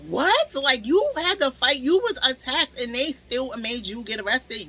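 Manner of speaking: cellmate gasping at the injustice; shocked disbelief. Retold or imitated. Cellmate, stunned by the story, in high disbelief. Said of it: "she was just like".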